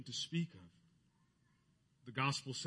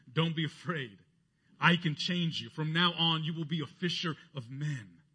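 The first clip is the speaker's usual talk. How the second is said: reassuring; 3 semitones higher, 6 dB louder than usual. Retold or imitated. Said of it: "reassured him".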